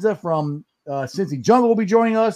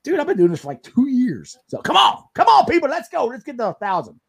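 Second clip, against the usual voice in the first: begging; 5 semitones higher than usual. Pretend.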